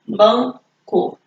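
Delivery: BANCO split in two, BAN, CO; syllable by syllable. Shown as a demonstration. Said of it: "dividida em duas sílabas".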